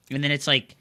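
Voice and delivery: ordinary delivery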